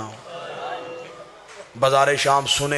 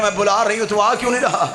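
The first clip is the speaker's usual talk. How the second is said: desperate tearful plea; 5 semitones higher, faster than usual. Acted. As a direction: cry out the plea again, more urgent. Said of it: "बीबी ने कहा".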